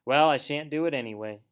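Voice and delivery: loud, worked-up refusal; excited protest. A narrator's reading. Toad refusing his friends' plan, excited protest. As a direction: refuse loudly, getting heated. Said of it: "cried Toad, getting excited".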